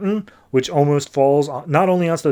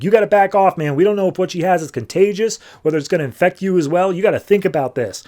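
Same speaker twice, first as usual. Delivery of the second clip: raised, insistent warning; urgent warning; 5 semitones higher than usual. Retold or imitated. Batman warning Superman off over the comms, urgent warning. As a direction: press the warning, pitched up.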